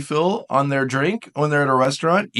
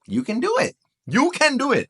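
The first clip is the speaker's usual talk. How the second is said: higher, gentle cheer; encouraging; 8 semitones higher than usual. Real, not acted. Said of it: "encouraging the viewer".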